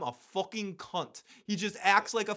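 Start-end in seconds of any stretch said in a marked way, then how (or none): 0.0-1.2 put-on British accent, higher pitch; horrible British accent. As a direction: swear in a bad British accent. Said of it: "Sorry for the horrible British accent".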